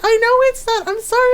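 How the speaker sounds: very high, pleading retold apology; imitating yourself apologizing in a panic; flustered apology. Acts out her flustered apology.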